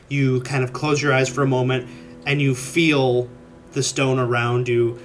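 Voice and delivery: steady scene-setting narration; game master narration. Acted. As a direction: paint the scene calmly. GM narrates stone sense.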